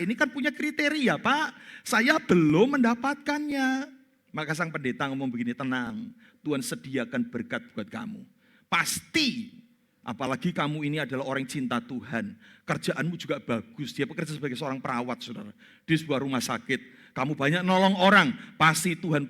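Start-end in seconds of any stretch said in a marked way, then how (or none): 5.5-13.9 softer, lower comforting pastor; calm the worried woman gently; reassuring pastor. Retold or imitated. (pendeta menenangkan jemaat dengan suara lembut dan rendah)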